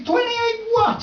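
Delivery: high, slow and puzzled; baffled question. Retold or imitated. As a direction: drag it out in total confusion. Baffled reply to ticket kid.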